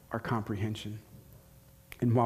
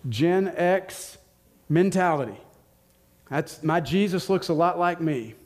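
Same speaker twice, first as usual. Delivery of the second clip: raised, louder confession of biases; animated self-aware believer; 5 semitones higher, 4 dB louder than usual. Retold or imitated. Preacher voicing a believer owning biases, animated. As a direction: lay your biases on the table, loudly.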